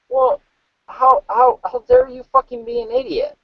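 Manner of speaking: mock the idiot driver in a high voice; high mocking retort.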